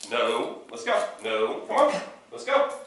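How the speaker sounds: rising cheerful redirect; correct and redirect. Shown as a demonstration. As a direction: snap then lead her away. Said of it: "There was a correction".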